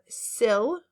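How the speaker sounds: sill with a short I, slowly. Shown as a demonstration. Teacher modeling short I in sill, slow. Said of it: "short I sound".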